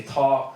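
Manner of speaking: "tá" said like "taw", long open a; the Irish word "tá", clearly sounded. Shown as a demonstration. Teaching the audience the Irish word "tá". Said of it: "you say".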